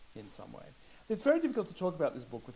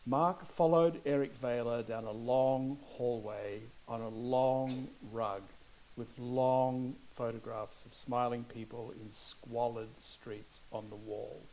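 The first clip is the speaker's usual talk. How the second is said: slow, measured book reading; slow literary reading voice; reading aloud; much slower than usual. Acted. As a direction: read the passage slowly, savouring it. Reads a passage from the book.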